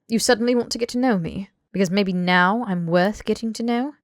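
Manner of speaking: quick, heated accusation; bitter, rapid-fire challenge; on a roll. Acted. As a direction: push the words out fast and rising. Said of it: "Draco was on a roll now".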